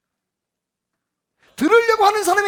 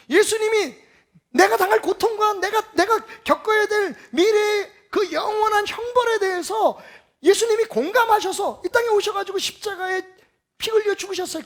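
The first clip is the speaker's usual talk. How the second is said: louder, higher impassioned preaching with a shout; full-force preaching; 5 semitones higher, 4 dB louder than usual. Acted. Preacher crying out to the congregation about the cross, impassioned.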